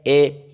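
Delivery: "ए" held as a lone vowel; teacher demonstrating the vowel "ए"; isolated vowel sound. Shown as a demonstration. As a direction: sound out "ए" by itself. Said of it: "ये है ना sound".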